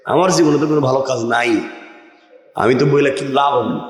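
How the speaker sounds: thinking to himself. Retold or imitated. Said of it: "এখন আরেকজন চিন্তা করছে". (নিচু স্বরে দ্রুত মনে মনে বলা)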